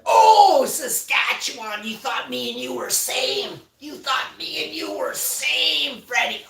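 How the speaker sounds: sudden high shout, cracking up; loud outburst. Real, not acted. Calling out a viewer's name in a loud, high shout. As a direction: yell out at a chat viewer.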